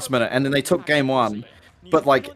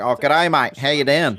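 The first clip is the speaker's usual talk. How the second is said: Australian accent. Shown as a demonstration. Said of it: "that's how you do Australian".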